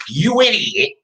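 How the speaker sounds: a punchy "You idiot"; firm, decisive put-down; emphatic insult. Acted. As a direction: land "You idiot" hard as a catchphrase. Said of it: "this is an emphatic".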